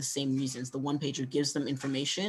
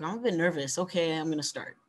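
demo admitting nerves; 2 semitones higher than usual. Shown as a demonstration. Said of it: "drink your water, like".

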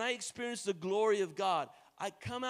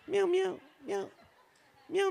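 higher, louder mews through a laugh; loud kitten meows; 9 semitones higher, 6 dB louder than usual. Shown as a demonstration. Preacher urging the church to meow, laughing loudly. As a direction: meow at them again, laughing and bigger. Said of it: "Come on, say that".

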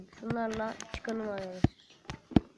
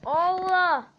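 excited shout; 6 semitones higher, 10 dB louder than usual. Real, not acted. Sudden find in the game.

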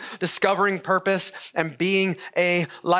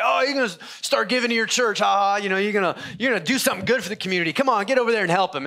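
teasing gym buddy; 4 semitones higher, faster than usual. Retold or imitated. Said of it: "He's like".

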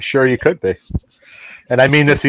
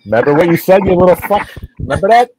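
higher-pitched mock scolding; buddy's mom; 5 semitones higher than usual. Man retelling his buddy's mom at dinner, mock scolding. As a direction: imitate a cussing mom telling off a kid. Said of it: "that's how she talked".

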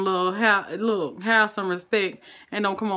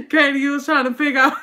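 laughing; 5 semitones higher, faster than usual. Real, not acted. Host laughs while teasing a viewer, giggling. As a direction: laugh through it, teasing kindly.

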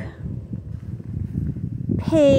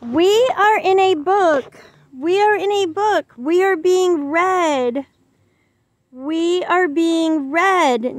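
higher, playful storybook voice; talking book voice; 5 semitones higher than usual. Acted. Book character introducing Lexi to the kids, higher voiced. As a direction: play a cheerful little book.

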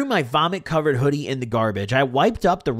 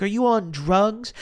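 slow, higher, mock-casual question; joking grandma question; 5 semitones higher, slower than usual. Passive aggressive grandma confronting her grandchild, imitated joking tone. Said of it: "as if it was a joke".

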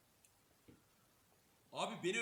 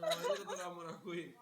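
laughing; 5 dB louder, much slower than usual. Real, not acted. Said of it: "laugh cry".

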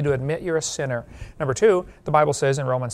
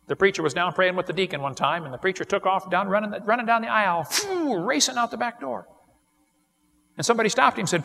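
usual speaking voice

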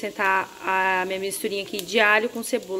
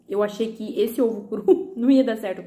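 talking with mouth full; words round a bite of food. Real, not acted. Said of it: "falando com a boca cheia".

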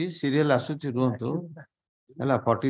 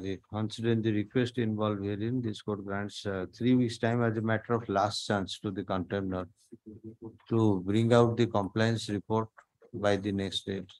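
slow court dictation; 2 semitones lower, 3 dB quieter than usual. Real, not acted. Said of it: "dictation ହଉଛି".

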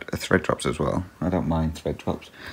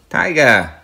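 sharp, high, loud call that falls away; real shout; 9 semitones higher, 9 dB louder than usual. Real, not acted. Vlogger breaks off to yell at Tiger, shouting. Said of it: "Sorry for shouting".

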